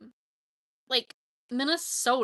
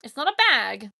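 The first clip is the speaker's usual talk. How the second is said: mock Minnesotan; 6 dB louder than usual. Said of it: "Minnesotans and their bags".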